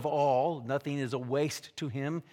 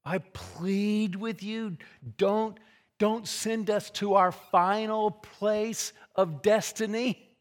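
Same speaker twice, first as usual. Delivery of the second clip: higher, drawn-out mock plea; acted pleading; 5 semitones higher, slower than usual. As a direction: plead slowly as the demons, stressing every word. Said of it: "The demons are pleading with Jesus".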